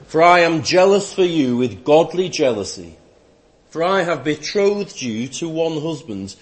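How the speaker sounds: solemn, measured reading from the pulpit; scripture reading. Acted. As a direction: proclaim the passage clearly, phrase by phrase.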